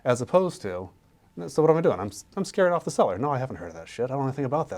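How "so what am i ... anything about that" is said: scared seller. Retold or imitated.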